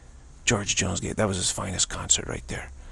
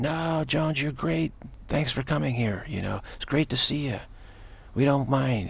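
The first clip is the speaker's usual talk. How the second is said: supportive fans; 5 semitones higher than usual. Retold or imitated. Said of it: "And others saying".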